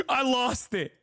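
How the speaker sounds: high-pitched, laughing admission; giddy, laughing confession; amused disbelief. Real, not acted. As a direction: say it through laughter, tickled at yourself. Laughing at own televised outburst.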